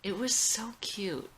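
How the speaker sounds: hushed and affectionate, reminiscing; tender whisper. Acted. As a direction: whisper it like a sweet memory. Tender memory of first date.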